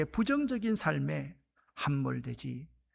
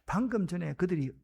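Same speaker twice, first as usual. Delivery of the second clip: usual speaking voice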